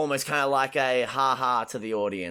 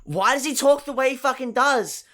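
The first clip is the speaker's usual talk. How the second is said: exasperated; 9 semitones higher, 5 dB louder than usual. Real, not acted. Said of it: "exasperated rant".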